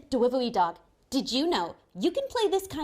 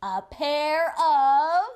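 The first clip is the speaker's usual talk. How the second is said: stretched-out suspense; 9 dB louder, much slower than usual. Pretend. Building suspense in pretend play.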